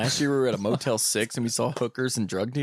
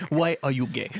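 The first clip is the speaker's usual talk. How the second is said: put-on South African accent. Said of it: "South African accent".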